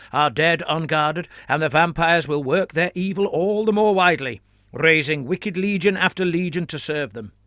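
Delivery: stern, preachy senior priest lecturing; a hint of a disapproving teacher preaching; zealous cleric laying down doctrine; lightly voiced Father Claudio.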